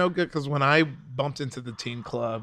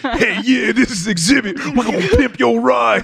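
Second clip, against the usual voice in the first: loud, high hyped-up host voice; a rapper; 9 semitones higher, 8 dB louder than usual. Retold or imitated. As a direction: shout it like a hype TV host. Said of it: "I do Exhibit".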